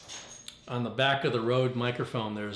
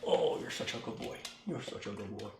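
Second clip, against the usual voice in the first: tender praise; 3 dB quieter than usual. Real, not acted. Owner praising dog softly.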